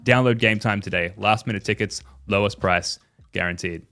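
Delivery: upbeat sponsor read voice. Acted. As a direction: sell it like a radio ad. Sponsor ad read, noticed after.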